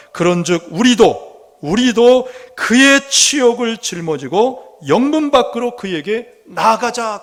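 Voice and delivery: slow, loud scripture reading. Acted. Preacher reads the verse to the congregation, slow forceful proclamation. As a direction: proclaim the verse, drawing out the words.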